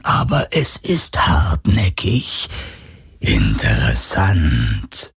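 slow, low, cold whisper; drawn-out eerie murmur; phantom whisper. A narrator's reading. Phantom continues speaking.

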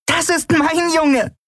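very high, slow, delighted cry; drawn-out high-pitched proud joy; bursting with pride. A narrator's reading. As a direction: exclaim it overjoyed. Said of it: "platzte fast vor Stolz und Glück".

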